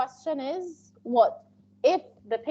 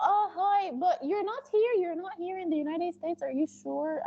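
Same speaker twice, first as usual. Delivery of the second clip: higher, surprised patient who wants the interpreter to stay; pleading patient; 5 semitones higher, 3 dB quieter than usual. Retold or imitated. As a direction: play the needy patient, a little higher. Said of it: "If they tell you".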